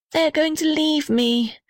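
sighed. A narrator's reading. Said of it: "sighed the little red house".

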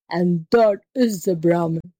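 enraged tiger. Acted. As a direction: spell it out as an exasperated tiger. Tiger figure explains angrily.

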